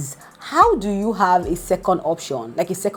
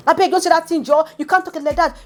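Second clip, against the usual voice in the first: retold shout; 10 semitones higher, faster than usual. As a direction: yell at him to stop. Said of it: "Adekunle is shouting".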